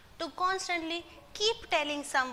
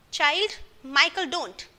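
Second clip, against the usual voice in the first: confident reply; 6 dB louder, slower than usual. Retold or imitated. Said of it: "came the confident reply".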